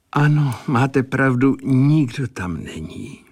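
put-on lonely old bachelor musing "nikdo tam není"; pensive. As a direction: let "nikdo" drop into a thoughtful fall. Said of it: "řekl Sazeč zádumčivě".

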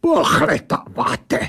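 snapped echo. A narrator's reading. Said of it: "vybafla ta věc".

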